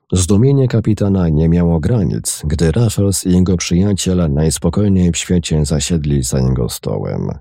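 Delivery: plain reading voice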